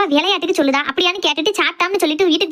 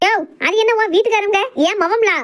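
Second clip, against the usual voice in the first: indignant challenge; 5 semitones higher than usual. Acted. Mother-in-law disputes daughter-in-law's claim on son.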